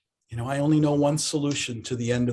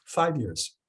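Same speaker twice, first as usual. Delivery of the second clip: calm teacher. Acted. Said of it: "the teacher sat there very calmly".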